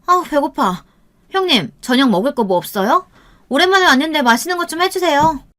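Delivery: high, whiny sister-in-law; tactless hungry whining. A narrator's reading. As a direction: pester for food in a high, pushy voice. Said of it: "배가 고프다고 중얼거렸어요". (눈치 없이 높은 소리로 보채기)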